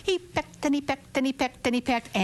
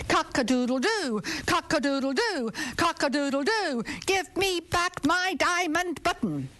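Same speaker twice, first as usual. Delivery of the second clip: rooster calling; 5 semitones higher than usual. Acted. Rooster calls at king's window.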